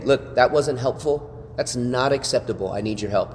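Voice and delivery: level, measured firm tone; a pastor setting a boundary gently; calm firm correction. Shown as a demonstration. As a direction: correct them calmly, no heat at all. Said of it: "but I can change my tone".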